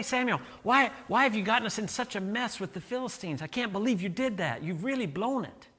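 high, whiny, accusing tone; mock complaint. Pastor imagines soldiers blaming Saul, mock accusing whine. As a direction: nag him about the mess. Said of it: "He doesn't say".

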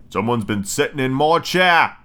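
slow, lightly roughened bear voice; great gruff bear. Acted. Great big bear finding his cushion moved, gruff slow voice. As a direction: draw it out with a touch of gruffness. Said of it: "in a great gruff, rough voice".

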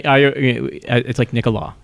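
slowly said Nicolas with no final S, stress at the end; "Nicolas" said the French way, the S silent; French-style name. Shown as a demonstration. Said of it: "say how I think it might be pronounced".

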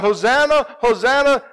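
high, loud crowd cry; shouted Hosanna. Retold or imitated. Crowd greeting the king, loud joyful cry. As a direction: call it out joyfully. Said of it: "they're shouting out".

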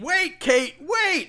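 high, swooping plea; mock clown calling. Clown calling Kate as she runs, high mock plea. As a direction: call after her in a high mock voice. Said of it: "you can hear the clown say".

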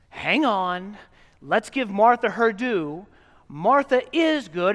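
quoted preacher voice. Pretend. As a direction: push back like another preacher. Voicing the other sermon.

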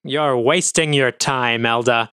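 dismissive. Acted. Scornful officer dismisses colleague.

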